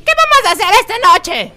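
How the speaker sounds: lively cartoon sidekick, clear and quick; sober Pinky voice. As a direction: ask it brightly, fully sober. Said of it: "¿Cómo es tu voz borracho?".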